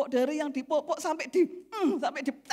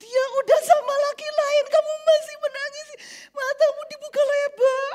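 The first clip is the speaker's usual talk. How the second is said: harsh rebuke; 12 semitones higher, 9 dB louder than usual. Retold or imitated. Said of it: "sampai jadi kasar".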